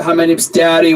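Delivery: "Daddy" lifted like a question; unsure question-mark tune. Shown as a demonstration. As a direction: say your name as if asking permission. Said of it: "what you hear is the question in the voice".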